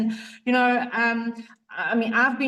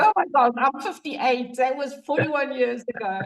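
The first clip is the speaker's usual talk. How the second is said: surprised; 3 semitones higher, faster than usual. Real, not acted. Realizing how long ago it was.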